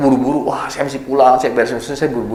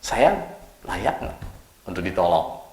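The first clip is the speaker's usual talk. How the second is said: hesitant self-doubt; 4 semitones lower, 8 dB quieter, slower than usual. Retold or imitated. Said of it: "Pertama adalah".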